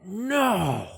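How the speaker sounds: anguished shout. Acted. Reacting to lost memory.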